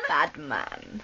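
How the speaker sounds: silly clown. Pretend. Silly very low voice.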